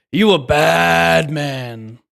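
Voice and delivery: put-on loud, slow African American accent. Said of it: "that was my black voice".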